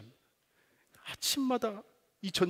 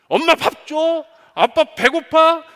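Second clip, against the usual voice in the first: much higher, much louder, drawn-out cry; demanding shout; 10 semitones higher, 15 dB louder, slower than usual. Retold or imitated. Son home from school, shouting demands at his parents. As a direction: boss your parents around. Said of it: "당당하게 요구하기".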